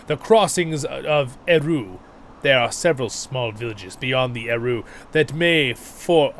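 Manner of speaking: lightly voiced gruff guard; a hint of a grim soldier; grim guardsman. The guardsman nods grimly.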